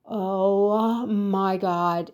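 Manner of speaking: slow, stretched-out awe; drawn-out, breathless wonder; like walking into heaven; awestruck gasp. Retold or imitated. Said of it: "I was like".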